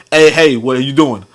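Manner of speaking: lightly imitated casual phone greeting; casual, relaxed phone voice; Black American caller. Showing how a black person sounds on the phone, casual imitation. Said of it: "a black person would be like".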